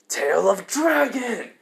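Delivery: drawn-out, high battle cry; attack call. Acted. Issei jumping into the air to strike, heroic attack call. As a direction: call the move out slowly, pitch lifted. Attack name called out mid-jump.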